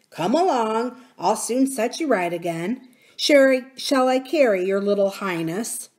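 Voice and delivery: put-on helpful young miner, a bit lifted; plucky boy taking charge; lightly voiced miner boy. Miner boy offering to carry the princess, helpful.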